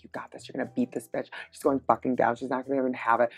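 muttered pep talk to oneself. Retold or imitated. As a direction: psych yourself up under your breath. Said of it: "giving myself pep talks".

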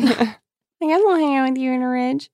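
high, mocking valley-girl tone; mock her naivety; sarcastic girl voice. Mocking Kimmy.

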